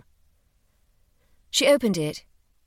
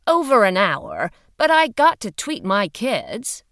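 louder, brisk official woman; firm woman's voice; 3 semitones higher, 6 dB louder than usual. Acted. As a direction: speak up like a firm investigator. Female agent speaking.

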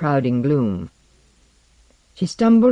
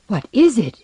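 higher and louder, pressing hard; a sudden raised, higher demand; urgent loud cry; 8 semitones higher, 5 dB louder than usual. Acted. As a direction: burst out with the question. Panicked man calming frightened woman.

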